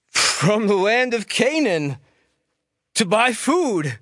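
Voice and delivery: a hint of nervous brothers; cautious answer to a stranger. A narrator's reading.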